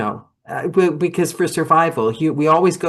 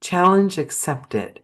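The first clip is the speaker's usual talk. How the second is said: slow deliberate motto; 2 semitones higher, slower than usual. Shown as a demonstration. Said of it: "I'm gonna write that in my booth".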